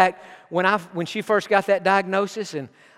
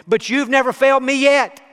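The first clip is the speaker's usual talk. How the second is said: heartfelt cry; 6 semitones higher, 6 dB louder than usual. Retold or imitated. Preacher's heartfelt cry to God.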